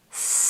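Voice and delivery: long hissing s; drawn-out s like a snake. Shown as a demonstration. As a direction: breathe out on a hiss.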